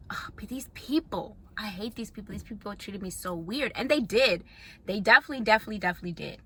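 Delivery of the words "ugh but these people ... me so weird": disgusted grumble. Retold or imitated. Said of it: "I was like".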